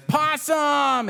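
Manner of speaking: very high, loud kitten squeal; so excited. A narrator's reading. Kitten thrilled by the idea, a very high squeal. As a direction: squeal it with delight. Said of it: "Pancake is so excited".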